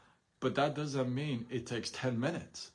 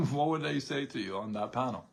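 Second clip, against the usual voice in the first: asked through a laugh. Real, not acted. Host repeats the question to viewers, laughing.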